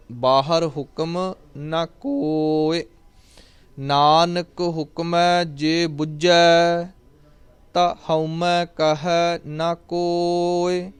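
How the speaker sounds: drawn-out, chanted scripture reading; slow gurbani recitation. Acted. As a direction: recite it slowly and reverently.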